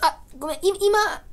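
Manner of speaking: high, small aside to someone far away; hurried, high-pitched stand-in for gestures; voiceless apology. Retold or imitated. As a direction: apologize as if miming across the room. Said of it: "声ではおはようございますって言えない".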